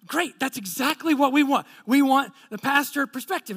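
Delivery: mock-enthusiastic yes; eager agreement. Acts out woman's eager reply.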